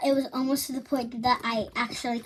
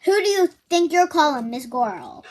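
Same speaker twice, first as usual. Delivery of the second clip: sassy, louder comeback; indignant; 3 semitones higher, 5 dB louder than usual. Retold or imitated. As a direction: repeat the insult louder. Repeat of line 23.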